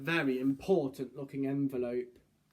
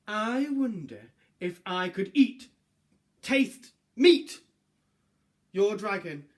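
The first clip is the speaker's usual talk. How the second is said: greedy butcher; 3 semitones higher, 5 dB louder than usual. Acted. Butcher's letter voice.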